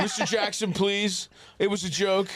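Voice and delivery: hammed-up fan apology; mock pleading. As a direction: beg the star athlete in mock desperation. Mock begging message to the athlete.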